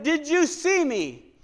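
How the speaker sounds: gentle slowed question from above; God's voice. Retold or imitated. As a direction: let it float slowly like a voice from heaven. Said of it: "God said".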